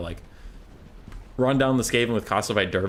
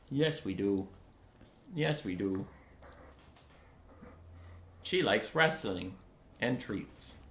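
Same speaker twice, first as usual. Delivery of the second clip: soft, cooing voice to a pet; 9 dB quieter than usual. Real, not acted. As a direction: gently coo to the dog. Soft talk about dog.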